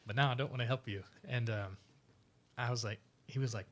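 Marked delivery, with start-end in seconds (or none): 0.1-1.0 louder, joking grievance through laughter; laughing mock grudge. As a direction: tease him like an old score to settle. Teasing the instructor, laughing.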